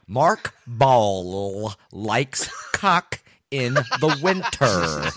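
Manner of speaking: drawn out, breaking into laughter; slow laughing. Shown as a demonstration. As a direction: stretch it out while cracking up. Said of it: "I'm all worked out now".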